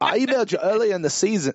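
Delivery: failed attempt at English accent. The speaker tries quoting a movie character, bad english accent attempt. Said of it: "I can't do it".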